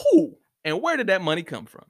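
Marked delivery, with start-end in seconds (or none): 0.1-0.4 "Who?" with an exaggerated breathy H; a heavy aspirated H opening "Who?"; extra emphasis on H. Shown as a demonstration. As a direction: lean hard on the H of "Who?". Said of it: "Extra emphasis on the H".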